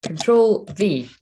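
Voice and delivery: each key spelled out slowly and evenly; slow, careful. Real, not acted. Streamer talks viewers through pasting, slow and careful. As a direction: say it slowly as you press the keys. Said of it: "No, guys, this is not working".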